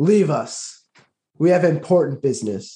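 proud, defiant tone. Voicing a character standing tall before a hag: proud and defiant. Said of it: "even though he is scared inside".

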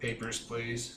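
very bored, utterly uninterested delivery. Voicing a gate guard who asks the group for papers: very bored tone. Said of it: "says in a very bored tone".

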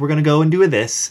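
put-on pleasant, friendly Canadian accent. Describing a parody stormtrooper: imitating a pleasant Canadian-sounding stormtrooper. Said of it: "talking in this kind of, like, pleasant".

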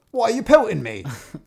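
shrill, very loud, high outcry. Narrator reading a giant hit by a stone, crying out. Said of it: "cried the other".

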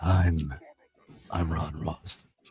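kept very low and level. Introducing himself as the morning show host, in a Batman voice. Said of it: "I'm trying to do the I'm Batman".

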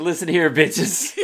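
forceful, bursting, barging-in energetic delivery. Imitating Alex bursting in like the Kool-Aid man: imitating Alex storming in. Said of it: "Alex comes storming in like the Kool-Aid man".

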